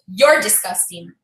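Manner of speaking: low, slow, deliberate put-down; neighbour's cold insult. Retold or imitated. Neighbour throws the insult back at her, low and slow. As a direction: deliver it low and drawn out, quoting her.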